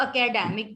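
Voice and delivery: एकेडमिक as "a-ke-DA-mik", leaning on "da"; stress on "da". Shown as a demonstration. Teacher corrects students' word, stressing the "da" syllable. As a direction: give एकेडमिक a full, stressed "da". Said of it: "stress is on the".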